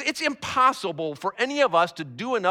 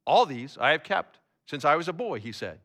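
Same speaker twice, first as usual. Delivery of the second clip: low, measured Bible reading; scripture reading; 6 semitones lower, 3 dB quieter than usual. A narrator's reading. Preacher reading the commandments to the congregation, measured scripture reading. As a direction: read the verses aloud evenly, pitched down. Reads the Bible passage aloud.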